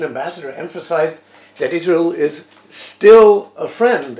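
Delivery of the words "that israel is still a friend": "still" hit hard and much louder, slowly drawn out; stress on STILL. Retold or imitated. Quoting the Russian ambassador's warning to Israel, heavy stress on "still". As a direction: lean heavily and slowly on the word "still". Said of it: "emphasis on the word still".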